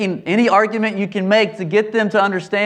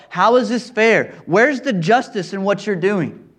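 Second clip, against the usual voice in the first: resentful protest; 3 semitones higher than usual. Retold or imitated. Older son protesting to his father, mildly indignant and raised. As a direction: argue your case with a mild edge of grievance. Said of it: "He's saying to his dad".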